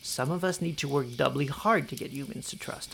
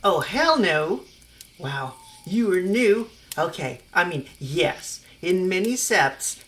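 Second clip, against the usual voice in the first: put-on loud, indignant girl ranting; offended young girl, much louder; outraged teen girl; 4 dB louder than usual. Stephanie outraged then ranting.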